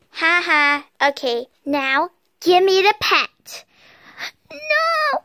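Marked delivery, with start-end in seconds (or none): 0.1-3.6 mocking mom voice. Mom voice mocks child.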